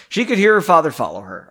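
a fluent corrected reading; clean fast retake. Shown as a demonstration. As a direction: rattle it off cleanly this time. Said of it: "that was stumbling over words".

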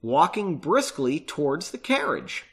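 measured audiobook-style reading with pauses; paced novel narration; story narration. A narrator's reading. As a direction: read it out deliberately, phrase by phrase. Reading the book aloud.

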